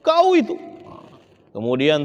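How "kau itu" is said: high-pitched mock shout at someone; imitating a shouting quarrel. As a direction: yell it like an angry person losing control. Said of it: "Teriak-teriak".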